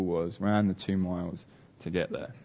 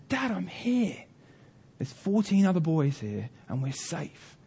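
put-on boy calling out; 8 semitones higher than usual. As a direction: imitate a trapped boy calling up to his dad. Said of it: "is calling to him".

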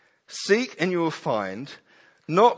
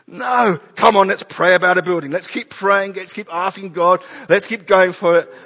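louder, brisk call to keep praying; rally the church in jest; mock rallying; 3 semitones higher, 6 dB louder than usual. Acting church urging prayer.

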